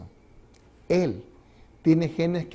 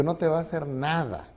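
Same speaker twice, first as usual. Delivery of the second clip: reassuring; 6 dB quieter than usual. Retold or imitated. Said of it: "Le digo".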